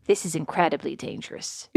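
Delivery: his mother fretting beside the swamp; worried mother-in-law. Retold or imitated. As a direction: murmur the warning. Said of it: "she was like".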